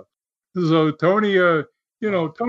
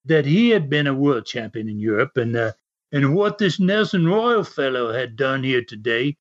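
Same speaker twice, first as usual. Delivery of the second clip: lightly attempted English accent. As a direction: imitate an English wrestler's interview, accent only lightly put on. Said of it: "try to do a little English accent".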